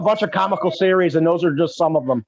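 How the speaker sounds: talking while chewing gum. Real, not acted. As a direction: gum in the mouth while speaking. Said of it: "could you please stop chewing your gum".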